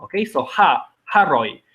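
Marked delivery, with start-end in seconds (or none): 1.1-1.6 haroj with the h said out; pronounced h. Shown as a demonstration. Teacher repeats haroj with its h sounded. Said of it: "so it must be pronounced".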